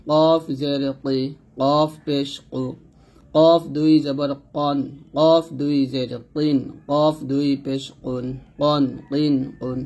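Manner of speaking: slow recitation with a heavy back-of-tongue sound in কফ; measured syllable drill, কফ said heavily from the back of the mouth; thick qaf drill. Shown as a demonstration. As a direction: keep every কফ thick and drawn out. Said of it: "মোটা করে উচ্চারণ করতে হবে".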